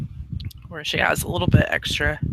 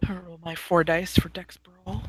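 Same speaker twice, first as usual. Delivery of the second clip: whispering; 6 dB quieter than usual. Real, not acted. Aside while muted.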